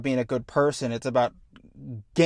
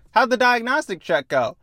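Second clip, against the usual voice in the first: higher, louder small talk; lightly voiced pilot; 9 semitones higher, 5 dB louder than usual. Pilot filling an awkward silence, lightly acted small talk. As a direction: lightly act an awkward check-in.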